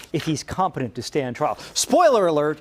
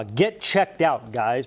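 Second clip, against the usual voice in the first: slow drawn-out catchphrase; 5 semitones lower, much slower than usual. Retold or imitated. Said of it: "remember when I gave you the choice of".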